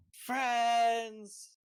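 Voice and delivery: high eager cry; excited cat creature. Acted. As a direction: squeal it like a happy cat. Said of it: "then she's like".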